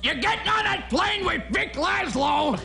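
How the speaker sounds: high, shouted mock Bogart farewell; Ralph Kramden in Casablanca. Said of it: "do a little of the impression that you always do".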